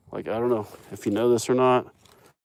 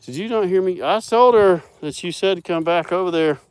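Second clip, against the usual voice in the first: voicing the cow; 9 semitones higher, 6 dB louder than usual. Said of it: "She's like".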